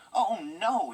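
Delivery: a sudden, loud, high cry of alarm; alarmed exclamation. A narrator's reading. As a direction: blurt it out as the wheels leave the rails. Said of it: "he exclaimed".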